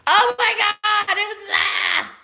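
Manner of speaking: overwhelmed. Real, not acted. Telling viewers about a tearjerker show, overwhelmed and high-pitched. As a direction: gush like the wedding scene undid you.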